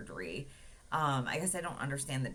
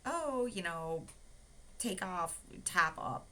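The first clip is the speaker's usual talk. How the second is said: mock nurse voice; 4 semitones higher, slower than usual. Nurse voiced in retold talk.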